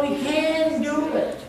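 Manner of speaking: rallying call. Real, not acted. Preacher rallying congregation.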